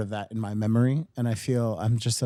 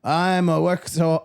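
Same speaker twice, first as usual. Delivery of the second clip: put-on Italian accent; 3 semitones higher, slower than usual. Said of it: "oh, he's Italian".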